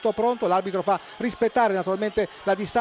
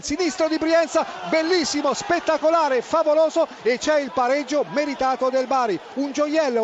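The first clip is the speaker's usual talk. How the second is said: excited goal call; 3 semitones higher than usual. Real, not acted. Goal equaliser called out.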